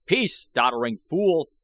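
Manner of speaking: loud sharp order to silence him; commanding. A narrator's reading. O Tar silencing the rambling old I Gos, loud command. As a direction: cut the old man off with authority. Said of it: "commanded O Tar".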